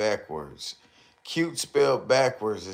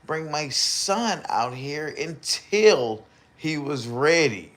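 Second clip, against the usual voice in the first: mocking quote; 5 semitones higher, 3 dB louder than usual. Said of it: "He said".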